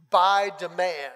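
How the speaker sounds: loud, slow sarcastic jab; by demand, said loud and slow with mock pride; sarcastic punchline. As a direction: land the joke with a loud slow sneer. Sarcastic punchline on parking view.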